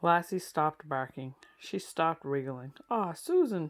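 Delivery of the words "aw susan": gentle, higher coaxing plea. A narrator's reading. Boy coaxing his scared cousin, gentle coax. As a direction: coax her kindly like a boy. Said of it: "Timmy coaxed".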